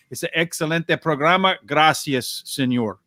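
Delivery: put-on a light, half-joking Spanish accent on the thanks. Handicapper thanking his colleague on air in a playful Spanish accent. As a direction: try out your best Spanish accent, not quite fluent. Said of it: "That's the best I can do in Spanish".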